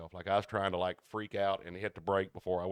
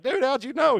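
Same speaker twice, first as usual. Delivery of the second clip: high, loud mock astonishment; amazed; 10 dB louder than usual. Driver to coworker who guessed the pliers, loud amazement. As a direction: burst out in high-pitched amazement. Retold amazed reply to Terry.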